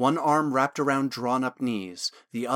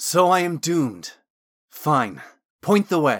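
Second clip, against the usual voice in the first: sneering, snide, sarcastic tone, raised; 3 semitones higher, 6 dB louder than usual. Told he must face the blade here, Thorn answers the Watcher, snide. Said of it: "Thorn said snidely".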